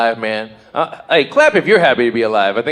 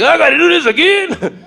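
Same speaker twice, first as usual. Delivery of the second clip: mock weary whine; 5 dB louder than usual. Mock weary morning groan.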